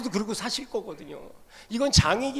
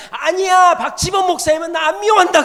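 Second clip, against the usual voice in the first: put-on child's protest; 10 semitones higher, 12 dB louder than usual. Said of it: "그랬더니 얘가 갑자기".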